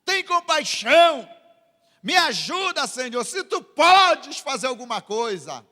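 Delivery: high, loud acted plea; desperate cry. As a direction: cry out for help, imitating desperation. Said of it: "você grita desesperado".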